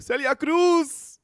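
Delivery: slow, high, loud wailing mother; a mother crying out her idol's name. Retold or imitated. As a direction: stretch the name out like a grieving mom.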